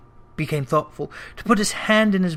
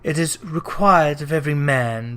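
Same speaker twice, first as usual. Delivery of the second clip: ghostly voice; 3 semitones lower than usual. Acted. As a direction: speak from beyond the grave. Ghost voice held.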